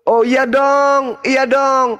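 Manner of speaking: of course, said smugly. Real, not acted. Smug agreement in debate.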